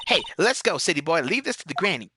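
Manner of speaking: hammed-up southern gal; put-on southern twang, hurrying someone along; cringy southern accent. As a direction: play it as a pushy southern gal. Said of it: "best cringy southern accent".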